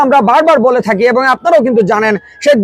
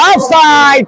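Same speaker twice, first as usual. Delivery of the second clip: shouting; much slower than usual. Real, not acted. Commentator calls offside.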